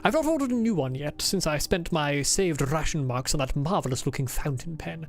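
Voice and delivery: a lightly put-on formal diary accent; Adler's put-on accent. Streamer reading Adler's diary aloud, lightly put-on accent. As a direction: read it as the stiff diarist, with only a hint of accent. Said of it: "Why do you think I'm doing this accent for him?".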